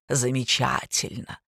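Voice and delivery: low, slow sneering drawl; mother mocking the girl's answer. A narrator's reading. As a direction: stretch it out with contempt. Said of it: "издевательски протянула Ольга".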